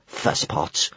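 soft, dismissive snort. A narrator's reading. Kamikaze dismisses the boys' worries, snorting. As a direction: puff it out with mild scorn. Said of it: "snorted Kamikaze".

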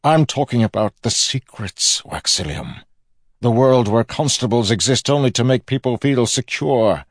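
loud, high, projected villain's voice; declaiming villain. A narrator's reading. Villain proclaims a new world to his nephew, loud and high. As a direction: proclaim it grandly, slowing at the end.

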